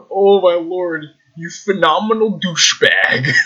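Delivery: crying-laughing insult; laughing outrage. Real, not acted. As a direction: cry it out through laughter.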